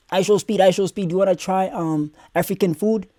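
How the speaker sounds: lightly hammed-up imitation of an overeager host; mock eager host.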